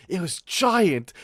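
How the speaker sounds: high, slow cry of disbelief; amazed exclaim. Retold or imitated. Telling the chat how huge the louse was, slow and amazed. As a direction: stretch out giant in shock.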